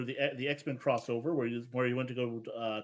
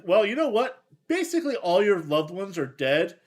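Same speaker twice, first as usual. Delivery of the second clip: loud Hulk taunt; 5 semitones higher, 6 dB louder than usual. Acted. Hulk taunting beaten heroes.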